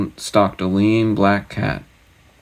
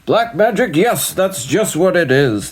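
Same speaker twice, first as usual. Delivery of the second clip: much higher, relieved sigh of a voice; relieved king; 10 semitones higher than usual. Acted. King relieved at the magic explanation, high and sighing. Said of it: "the king sighed with relief".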